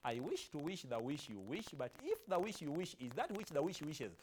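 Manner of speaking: tongue twister said out piece by piece, then in full; tongue twister demo. Shown as a demonstration. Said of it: "Then you practice".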